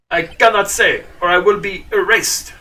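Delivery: lightly hammed French-accented refusal; horrible French accent. Witness will not name the man, bad French accent. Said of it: "It's been a long time since I took French".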